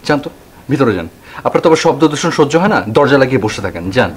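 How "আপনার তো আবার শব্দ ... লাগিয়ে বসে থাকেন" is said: louder, cutting brush-off; heated, taunting retort; irritated dismissal. Acted. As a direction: send the complainer off crossly. Sends the complaining neighbour away.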